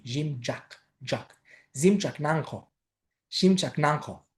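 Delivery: ΖΙΜΤΣΑΚ with a thick, hushing dzh. Shown as a demonstration. Teacher underlining the thick tz, thick dzh pronunciation. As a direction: thicken the middle consonant of ΖΙΜΤΣΑΚΝΑΓΧΟ. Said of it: "με παχύ ταυ ζήτα".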